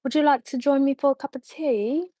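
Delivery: a light, posh British accent offered up for fun. Shown as a demonstration. Viewers ask a streamer to say something British, lightly done. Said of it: "I'll do a British accent".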